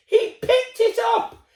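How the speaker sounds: high, slow, astonished reveal; amazed. A narrator's reading. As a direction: build it up for the kids. Story climax exclaimed.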